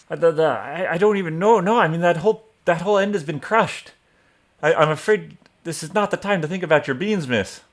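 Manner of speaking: high-pitched, flustered townsman voice; Frederick. Acted. Game master answering a player as a townsman, high and flustered. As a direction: stammer into a high, loud refusal, then rush the end. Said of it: "Frederick if he saw anything".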